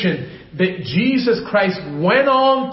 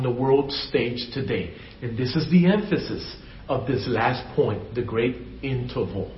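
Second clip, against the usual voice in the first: hushed preaching; 5 semitones lower, 6 dB quieter than usual. Acted. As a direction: preach it quietly, as a confidence. Soft intimate stretch of sermon.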